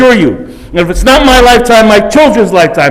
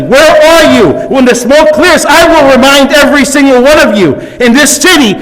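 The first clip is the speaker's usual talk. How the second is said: passion building toward a raised voice; rising indignation; 4 semitones higher than usual. Real, not acted. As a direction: call the council out, slowing on key lines. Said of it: "Bring it down".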